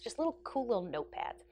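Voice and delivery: hushed little whisper; breathy conspiratorial aside. Real, not acted. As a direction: drop to a secret whisper. Whispered aside about notepads.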